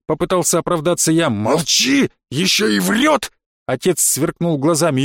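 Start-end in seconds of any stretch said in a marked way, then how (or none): 1.3-3.3 angry father. A narrator's reading. Father scolding son.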